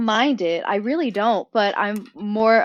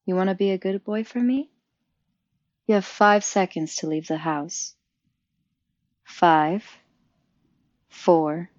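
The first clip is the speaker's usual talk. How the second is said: dom voice; 2 semitones lower than usual. Shown as a demonstration. Guest gives her best dom attempt on request, dom voice. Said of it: "can you give your best, um, dom voice attempt".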